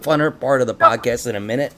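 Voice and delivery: talking through a mouthful of popcorn; munching popcorn. Real, not acted. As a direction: mouth full, chewing. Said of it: "Sorry, I was eating popcorn again".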